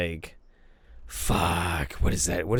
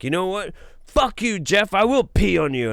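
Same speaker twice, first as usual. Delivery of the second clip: higher-pitched retold drunken challenge; mock defiance; 8 semitones higher, 4 dB louder than usual. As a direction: act out a friend's defiant dare. Retold drunken dare between friends.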